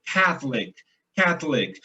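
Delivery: "Catholic" punched on CATH; "Catholic" as CATH-lic, in two beats; first-syllable stress. Shown as a demonstration. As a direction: hit the first syllable of "Catholic" and swallow the middle. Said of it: "em inglês é o contrário".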